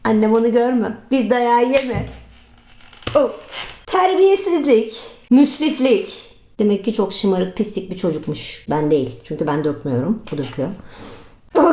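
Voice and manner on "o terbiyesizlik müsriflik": imitating scolding mother. Mother scolding about wasted food.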